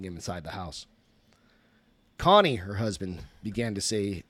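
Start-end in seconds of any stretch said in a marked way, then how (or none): 2.2-2.6 raspy voice. A narrator's reading. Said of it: "began in a raspy voice".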